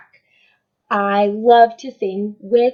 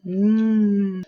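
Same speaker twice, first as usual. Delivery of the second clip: yummy mm. Shown as a demonstration. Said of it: "pretend to eat them".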